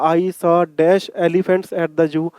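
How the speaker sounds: reading the sentence very slowly, word by word; teacher dictating the question slowly; slow read-aloud. Shown as a demonstration. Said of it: "जब मैं ये पढ़ता हूँ ना".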